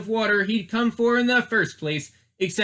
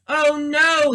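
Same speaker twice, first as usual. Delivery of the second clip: high, loud gasp of dismay; a startled Oh no as his nose turns to a carrot; gasping alarm; 9 semitones higher, 4 dB louder than usual. Acted. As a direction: gasp it out in sudden shock. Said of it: "he gasped".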